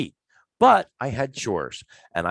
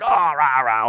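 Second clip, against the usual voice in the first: grumbling; 4 semitones higher, 5 dB louder, slower than usual. Retold or imitated. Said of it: "all grumbling and rah".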